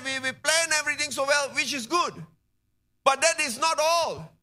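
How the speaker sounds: high, insistent sermon voice; impassioned preaching. Real, not acted. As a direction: press the point home to the congregation, pitched high. Preaches at full force.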